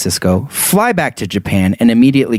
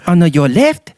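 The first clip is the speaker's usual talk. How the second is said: put-on higher tour guide with Asian accent; 7 semitones higher than usual. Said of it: "I can't continue an Asian accent".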